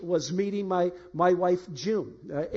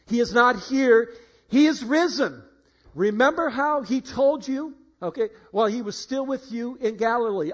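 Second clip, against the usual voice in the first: angel's proclamation; 4 semitones higher, 5 dB louder than usual. Acted. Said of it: "And they said to them".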